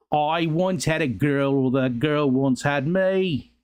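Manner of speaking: slow, badly faked British accent; a clumsy stab at a British accent, drawn out; horrible accent. Streamer quotes a band's song line in a bad British accent. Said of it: "That was a horrible accent".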